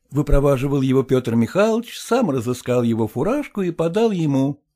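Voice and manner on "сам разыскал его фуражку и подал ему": usual speaking voice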